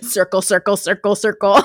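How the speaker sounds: words broken up by laughter; laughing. Real, not acted. Joking with co-host about the dramatic notebook, laughing. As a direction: say it through real giggles. Friends crack up over the notebook.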